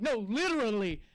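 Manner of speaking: mock exasperated sign; exasperated emphasis. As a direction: hammer home it's really over. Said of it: "the next sign is like".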